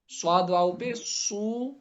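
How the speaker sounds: "سو" as a long "suu"; spelling out maruf waw. Shown as a demonstration. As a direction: spell slowly, stretching "سو" into suu. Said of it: "معروف پڑھا جائے گا".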